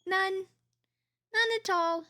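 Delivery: high, slow, stretched-out None at all; drawn-out teasing. Real, not acted. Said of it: "None at all, at all".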